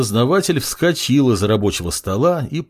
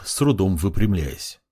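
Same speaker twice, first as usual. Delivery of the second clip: ordinary delivery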